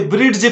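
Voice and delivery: ब्रिड्ज with an audible D before the J; D sounded. Retold or imitated. Teacher imitating children's mistake, D voiced in ब्रिड्ज. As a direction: mimic children reading ब्रिड्ज with the D. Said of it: "डी को भी छोड़ते नहीं".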